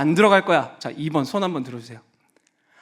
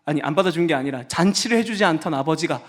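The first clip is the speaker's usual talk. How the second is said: sulking son. Acted. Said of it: "삐지고 만 거예요".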